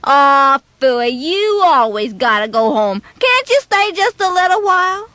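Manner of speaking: lightly voiced whiny boy pleading; a hint of a pouting kid begging; coaxing friend. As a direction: wheedle him to stay a bit longer. Friend begs Casey to stay.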